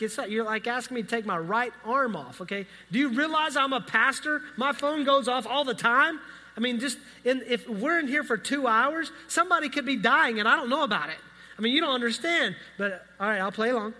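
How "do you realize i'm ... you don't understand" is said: raised, louder mock outrage at the phone rule; mock indignant protest. Pastor protesting the bailiff's phone rule, mock indignant. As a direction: protest like a pastor who can't be unreachable.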